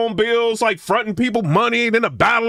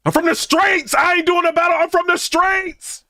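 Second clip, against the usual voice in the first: mock street bravado; 5 semitones higher than usual. Mocking street battler bravado.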